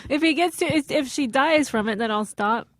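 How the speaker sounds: talking through real laughter; can't stop laughing while explaining; helpless laughter. Real, not acted. Listener admitting she can't help it, laughing helplessly. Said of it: "I can't help it".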